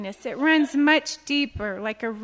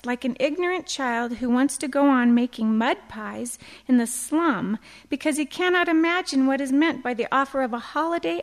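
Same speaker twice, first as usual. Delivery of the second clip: quoting C S Lewis; 4 dB louder than usual. Acted. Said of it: "He said".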